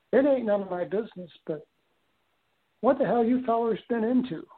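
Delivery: a hint of an old Southern Missouri counterman, rising at the end; Southern Missouri accent. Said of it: "Southern Missouri accent".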